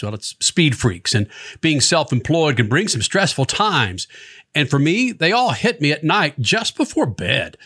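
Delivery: conversational radio ad read; sponsor ad read. Real, not acted. Host reads a therapy sponsor spot to listeners, conversational ad read. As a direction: pitch the sponsor in an easy, practiced host read.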